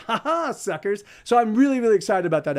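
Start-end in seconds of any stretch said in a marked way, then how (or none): 0.1-1.0 gloating ha ha, then a sneer; taunting mock laughter. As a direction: laugh at them like you won. Gloating at the fire department.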